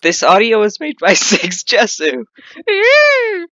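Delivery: loud, high announcer intro; audio intro voice. Pretend. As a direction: hype it like an intro tag. Doing a Roblox audio intro.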